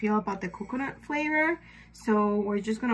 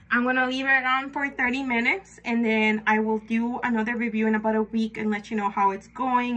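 talking with strips on teeth. Real, not acted. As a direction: lips stiff over strips. Seen 1: Clear strips applied before; glossy film on teeth while speaking.

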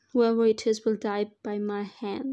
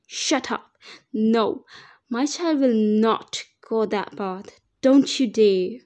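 defiant mother; 6 dB louder, slower than usual. Acted. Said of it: "I told him".

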